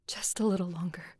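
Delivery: soft pleading whisper; hushed prayer to the moon. Acted. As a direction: barely breathe the words, begging.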